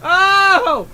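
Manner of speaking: high, drawn-out cry of awe; hammed-up, slow, overwhelmed lead-in; mock-dramatic exclamation. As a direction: stretch it out like a huge revelation. Mock-dramatic build-up to his story.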